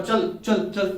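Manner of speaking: loud repeated command; yelling at the cockroach; shouting. Retold or imitated. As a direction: make a racket with each word. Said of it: "शोर मचा के बोला".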